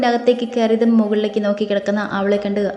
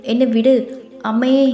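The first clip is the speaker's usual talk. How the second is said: louder and higher, "വിട്" punched, rising to a cry for mother; loud frightened cry; 3 semitones higher, 4 dB louder than usual. Acted. Krishna crying out to mother as he grabs her. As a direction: scream for help in fear. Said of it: "അവൾ പേടിയുടെ ഉച്ചത്തിൽ വിളിച്ചു".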